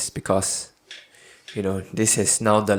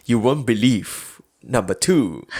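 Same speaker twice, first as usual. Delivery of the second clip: clickbait video narrator; 4 dB louder than usual. Acted. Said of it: "just write one of the steps and then say".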